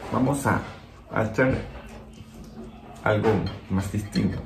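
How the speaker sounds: talking while chewing food; eating and grimacing between words; mouth full, chewing. Real, not acted. Seen 1: Bites the green nopal piece just before, still chewing while speaking.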